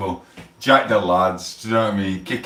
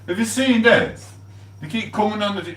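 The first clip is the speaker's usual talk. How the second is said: mock squeaky voice; 13 semitones higher than usual. Streamer taunting a viewer, much higher mock squeak.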